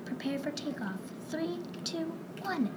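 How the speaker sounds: a unicorn playfully counting down for takeoff; smiling countdown. Acted. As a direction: count down gently, grinning. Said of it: "with a smile".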